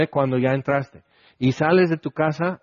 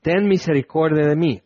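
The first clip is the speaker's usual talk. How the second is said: calling out. Retold or imitated. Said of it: "comenzó a dar voces".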